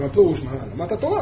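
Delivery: retold low, soft question; low, hushed reply; quiet questioning. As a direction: ask it gently, pitched well down. His own quiet reply, retold.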